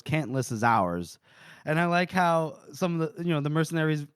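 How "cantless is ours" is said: low, slow, weighty declaration; gruff claim. Retold or imitated. Old Lamb claiming the fugitive, low and slow. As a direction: plant your feet and claim him slowly.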